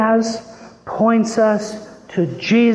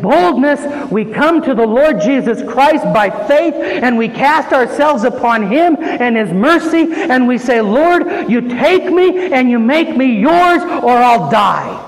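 slightly raised, urgent pulpit voice; bold preaching plea; 4 semitones higher, 3 dB louder than usual. Acted. Preacher voices believers casting themselves on Christ, bold pleading. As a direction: press the plea boldly, with conviction.

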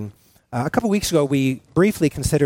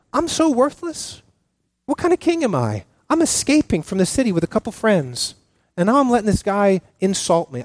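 high-pitched, mildly despairing lament; acted self-reproach; 5 semitones higher than usual. David doubts himself while fleeing the city, mock despair. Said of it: "David must have felt like that".

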